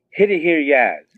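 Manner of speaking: a light imitation of an eager kid's instruction; keen little boy telling dad, only lightly voiced; son's words. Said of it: "my little guy goes".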